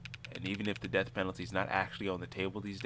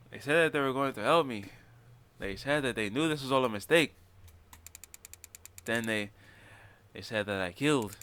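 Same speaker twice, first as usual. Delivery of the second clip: Carlos voice; 3 dB louder than usual. Acted. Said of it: "I don't know if I should keep doing that voice".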